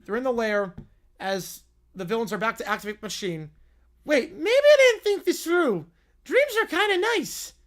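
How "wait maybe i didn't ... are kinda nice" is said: high, loud cartoon villain. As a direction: play the villain, big and high. Villain voiced in read story.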